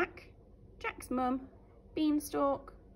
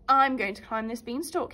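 mild eager cry; 6 dB louder than usual. Acted. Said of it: "he cried".

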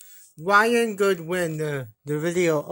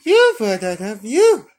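loud mock challenge; 2 semitones higher, 9 dB louder than usual.

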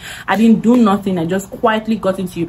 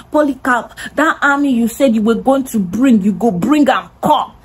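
retold threat; 5 semitones higher than usual. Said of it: "Tim is threatening me".

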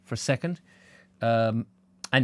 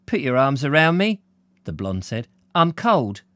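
higher, coaxing woman's voice; young woman voice; 3 semitones higher, 4 dB louder than usual. Acted. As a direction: draw him close. Blonde asks close.

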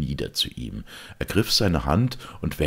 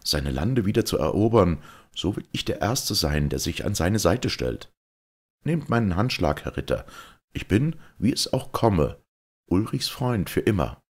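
put-on a lightly raised, earnest young Georg; young knight's eager vow; 5 semitones higher than usual. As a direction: pledge loyalty with youthful fire.

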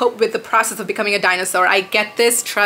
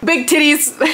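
"Big titties" squealed high and bright; playful high squeal; 6 semitones higher, slower than usual. Pretend. Jokey shout-out of a product.

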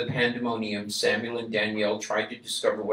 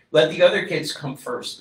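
higher, louder insistence; brave insistence; 6 semitones higher, 8 dB louder than usual. A narrator's reading. Boy telling his father to save others first.

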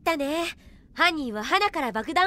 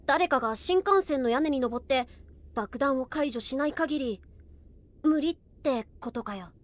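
grim realisation; 5 semitones lower, 6 dB quieter, slower than usual. Acted. Grim realisation of the impossible task.

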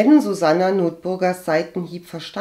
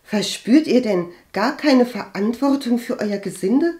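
loud, raised indignant challenge; furious outburst; 6 semitones higher, 6 dB louder than usual. A narrator's reading. Agathe rebukes cousin for neglecting servants, furious. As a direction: burst out, outraged. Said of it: "stieß sie wütend hervor".

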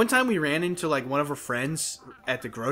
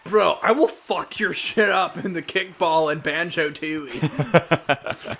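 mock tough brag; much slower than usual. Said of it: "Did you put it on your resume?".

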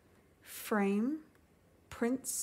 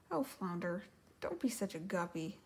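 joking; 3 semitones lower, 6 dB quieter than usual. Acted. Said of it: "Ariel joked".

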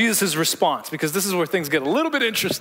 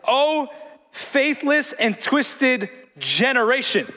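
Jesus rebuking; 3 semitones higher, slower than usual. Retold or imitated. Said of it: "Jesus is calling out everybody".

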